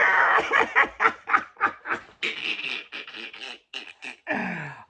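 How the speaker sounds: a hearty laugh that spills over; loud laughter. Real, not acted. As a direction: laugh out loud at your own story. Laughing while telling the story.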